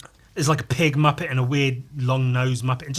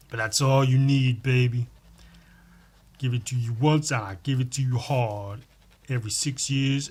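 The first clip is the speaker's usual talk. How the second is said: mock macho lover. Sultry mock lover bit.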